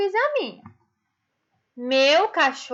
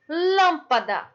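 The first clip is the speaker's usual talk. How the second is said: LÂMPADA said slowly, weight on first LÂM; stress on LÂM. Shown as a demonstration. Teacher showing pupils the tonic syllable, stress on LÂM in LÂMPADA. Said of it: "o lã".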